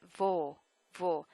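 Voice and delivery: "Vo" on a pure rounded o; "Vo" with a closed, unglided o; vo as in vogue. Shown as a demonstration. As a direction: say "Vo" like vogue without its ending. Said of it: "Think of the word vogue".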